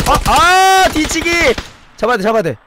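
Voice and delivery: high, loud alarmed shouts; real panic as the enemy flanks; excited yelling. Real, not acted. (뒤치기에 놀라 다급하게 외치는 소리)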